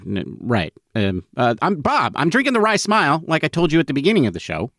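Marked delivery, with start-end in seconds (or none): 1.6-4.7 higher, quick playful host voice; mock host voice. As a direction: imitate the host, hammed up. Mimics co-host's show voice.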